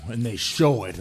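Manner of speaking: normal talking voice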